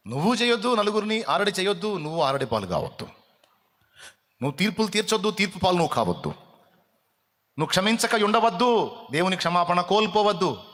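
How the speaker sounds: high, loud commands hammered one by one; forceful preaching. Acted. Pastor warning the congregation not to judge, in loud, high commands. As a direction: drive each "don't" home like a warning.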